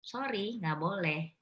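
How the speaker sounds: mother refusing with a smile, gentle. Shown as a demonstration. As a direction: say no kindly, smiling through it. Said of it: "tetapi dengan senyum".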